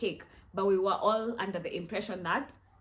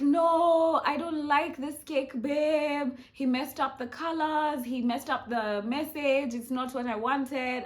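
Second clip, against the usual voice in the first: high, loud, whiny complaint about the cake; hammed-up hysterical wail, pitched high; mock hysterical friend; 7 semitones higher, 6 dB louder, slower than usual. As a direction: imitate a distraught friend wailing. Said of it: "crying, hysterical".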